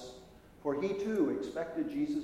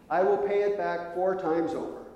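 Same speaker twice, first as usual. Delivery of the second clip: words tumbling out; 3 semitones higher than usual. Retold or imitated. Zacchaeus pouring out promises to Jesus, eager and raised. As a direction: blurt the promise before thinking. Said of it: "the words started to flow from his mouth".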